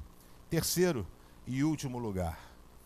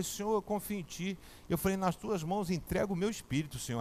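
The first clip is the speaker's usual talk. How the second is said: soft, hushed prayer to the Lord; whispered prayer; 6 dB quieter than usual. Retold or imitated. Praying to God before boarding, softer. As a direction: surrender quietly, eyes closed.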